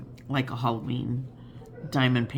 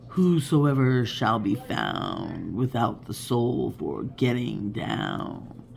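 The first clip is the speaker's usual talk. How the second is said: slow, deep, spooky recitation; hammed-up horror narrator; Vincent Price voice; 3 semitones lower, much slower than usual. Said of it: "I can't do his voice".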